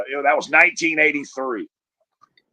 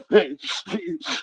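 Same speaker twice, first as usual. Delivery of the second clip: mock bawling; 8 semitones higher, 5 dB quieter than usual. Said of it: "we just start bawling our eyes out".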